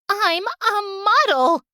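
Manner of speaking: high, slow, drawn-out snooty brag; haughty boast. Acted. Jealous rival Julie boasting to Valerie, haughty and slow. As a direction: look down your nose at her.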